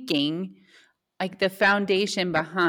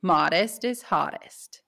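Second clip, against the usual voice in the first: slow, deadpan sarcastic slogan. Acted. Co-host giving her quote of the week, sarcastic. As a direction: recite it slowly with understated sarcasm. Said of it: "hear the sarcasm in her voice".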